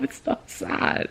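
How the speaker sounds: breathless teary whisper. Real, not acted. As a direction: whisper it to yourself while fighting tears. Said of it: "I'm tearing up".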